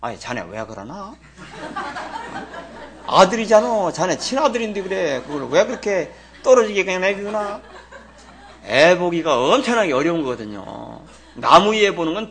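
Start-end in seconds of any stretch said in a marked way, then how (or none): 0.0-7.6 scolding the son-in-law through a laugh; half-laughing, half-chiding; laughing rebuke. Retold or imitated. Father-in-law chiding son-in-law, laughing scold. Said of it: "난리가 나는데".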